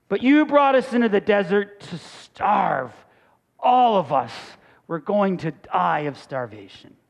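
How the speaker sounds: mild mock whine, sinking at the end; whiny voice. Hungry Israelites blaming Moses in the desert, mild whine. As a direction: complain with a touch of whine, letting it drop away. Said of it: "read this kind of in a whiny voice".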